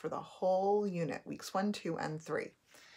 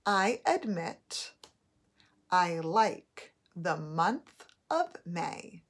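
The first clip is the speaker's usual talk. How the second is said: slow dictation; slower than usual. Shown as a demonstration. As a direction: read it out word by word for spelling. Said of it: "Your first sentence is".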